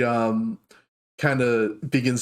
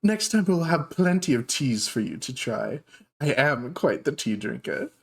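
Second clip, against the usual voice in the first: dark elf shopkeeper; 2 semitones higher than usual. Acted. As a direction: coo at unexpected guests. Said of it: "she's like".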